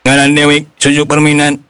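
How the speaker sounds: stiff, repeating toy robot voice. Acted. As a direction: talk like a toy robot speaking. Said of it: "anu niru-niru sora robot".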